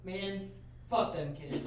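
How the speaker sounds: rapper quote. Retold or imitated. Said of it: "In the words of my favorite rapper".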